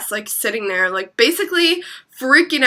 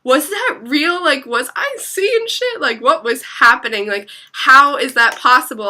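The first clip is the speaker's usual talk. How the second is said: higher-pitched, incredulous run of questions; retold disbelief; 4 semitones higher than usual. Storyteller replaying her thoughts after fleeing, in disbelief. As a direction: question it all in mock disbelief. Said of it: "I was in such disbelief".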